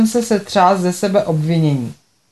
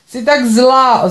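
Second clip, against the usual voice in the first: tearful reproach; 5 semitones higher, 3 dB louder, much slower than usual. Acted.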